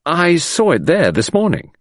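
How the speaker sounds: slow, careful admission; slow, hesitant statement; said slowly. Acted. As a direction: weigh each word slowly. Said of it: "I said slowly".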